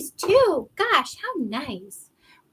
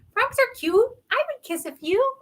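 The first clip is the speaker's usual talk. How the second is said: gushing; 13 semitones higher than usual. Real, not acted. Gushing about frogs.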